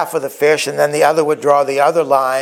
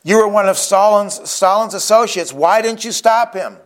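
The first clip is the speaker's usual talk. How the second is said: higher-pitched mock shout from the crowd; imitated heckler's shout; 5 semitones higher than usual. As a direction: call out an accusing challenge, only mildly shouted. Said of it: "a heckler from the crowd who shouted out".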